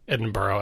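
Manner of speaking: "Edinburgh" with a full "oh" ending; wrong borough pronunciation. Shown as a demonstration. Podcaster ruling it out, borough-style pronunciation. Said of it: "it's definitely not".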